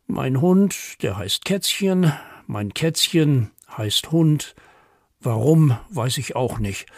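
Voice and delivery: measured, playful verse recital; poem for children. A narrator's reading. Poet reads children a pet poem, playful recital. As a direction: lean on each rhyme as you read.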